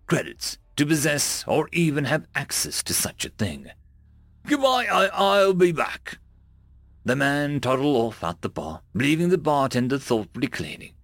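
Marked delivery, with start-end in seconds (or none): 4.5-6.2 squeaky giddy alien goodbye; high creature voice. Acted. Creature departing.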